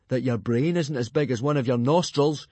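put-on dry sarcastic boy voice. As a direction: deliver the insult deadpan. Fishlegs insulting Snotlout.

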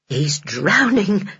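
slow dawning horror; slow horrified whisper-like dread. Acted. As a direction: let the fear sink in slowly. Henny's horrified thought.

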